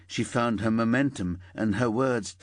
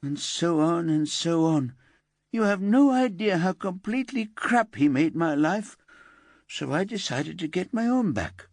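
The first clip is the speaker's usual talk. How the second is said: put-on higher, aggrieved teenage voice; indignant teenage girl; 9 semitones higher than usual. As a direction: complain about the cruelty, higher. Elsa recounts her humiliation.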